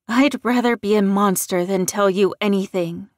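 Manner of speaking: loud defiant refusal. Acted. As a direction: spit it back defiantly.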